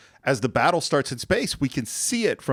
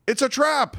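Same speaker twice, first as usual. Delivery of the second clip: Admiral Ackbar; 12 semitones higher than usual. Retold or imitated. Famous Ackbar line.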